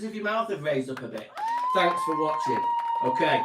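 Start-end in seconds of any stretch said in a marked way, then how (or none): 1.7-3.4 high-pitched sign-off. Real, not acted. Show sign-off.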